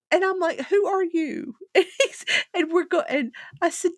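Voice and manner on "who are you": high, loud, disbelieving; mock disbelief. Beth asks her dad who he is, in high laughing disbelief. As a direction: pretend to stare at a stranger.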